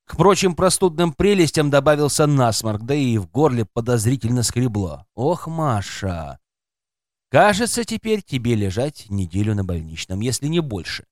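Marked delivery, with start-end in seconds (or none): none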